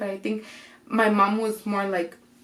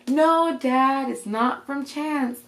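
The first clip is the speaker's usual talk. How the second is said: higher, drawn-out correction; mock exasperation; 5 semitones higher, much slower than usual. Daughter corrects dad about who sent it, mildly exasperated. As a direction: act out setting Dad straight.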